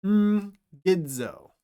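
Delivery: ngidzo starting with a nasal ng. Shown as a demonstration. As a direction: begin ngidzo with ng through the nose. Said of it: "gamma makes a ng sound".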